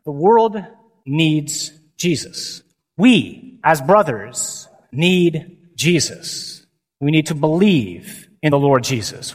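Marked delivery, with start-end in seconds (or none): 0.0-2.6 "needs" drawn out very slowly; slow emphasis. Real, not acted. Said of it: "preaching key line". 3.0-6.6 slow emphasis. Real, not acted. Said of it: "preaching key line".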